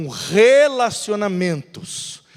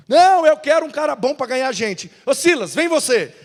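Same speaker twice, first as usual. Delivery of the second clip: Paulo decidido; 5 semitones higher, 6 dB louder than usual. Acted. Paulo chama Silas.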